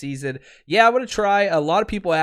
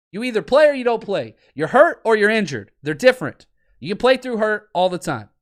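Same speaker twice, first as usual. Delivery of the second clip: loud, driven rant about hurt players; heated rant; 5 semitones higher, 4 dB louder than usual. Real, not acted. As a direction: hammer it home, fired up. Ranting about hurt versus injured.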